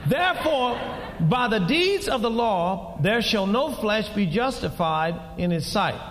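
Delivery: measured scripture reading to the church. Acted. Preacher reading Romans to the congregation, measured.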